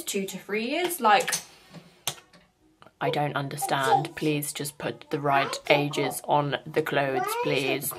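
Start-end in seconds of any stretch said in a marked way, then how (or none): 3.0-7.9 exasperated plea. Real, not acted.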